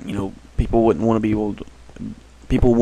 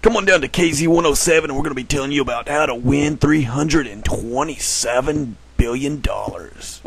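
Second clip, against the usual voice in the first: fast, hyped radio ad read; crazy radio guy voice; 3 semitones higher, 3 dB louder than usual. Pretend. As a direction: sell it like a wild radio DJ. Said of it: "Crazy radio guy".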